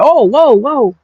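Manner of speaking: high startled yelp, then dropping; overwhelmed tourist's high startled whoa. Retold or imitated. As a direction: recoil at the rapid-fire Spanish. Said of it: "I'm like".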